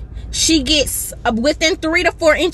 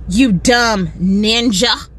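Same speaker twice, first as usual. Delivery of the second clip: imitating a rude insult; 4 semitones lower, much slower than usual. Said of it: "she says".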